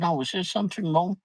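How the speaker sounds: fast, high polite inquiry; imitating staff. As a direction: mimic concerned staff lightly. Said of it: "they came over and said".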